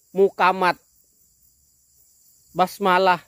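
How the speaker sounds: demonstrating a Javanese accent. Shown as a demonstration. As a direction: give these sample words a Javanese accent. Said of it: "Logan orang Jawa seperti ini". (contoh logat Jawa)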